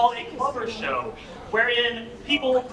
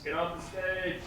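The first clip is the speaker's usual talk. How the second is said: mock heckle; 4 semitones lower, 10 dB quieter than usual.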